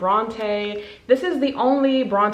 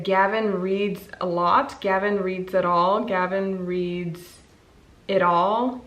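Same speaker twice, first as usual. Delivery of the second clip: slowly working it out. Real, not acted. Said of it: "I need to confirm a channel name".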